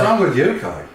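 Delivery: loud, high scolding yell; angry shout. Acted. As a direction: bark at him, outraged. Character scolds sparring companion.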